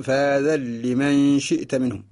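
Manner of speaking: slow "فذا لمن" read "فذالّمن", nun lost in doubled lam; slow recitation. Shown as a demonstration. Teacher recites the verse slowly to show the merge. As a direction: draw out "فذا لمن شئت منهم", no n heard. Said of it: "نقرأ".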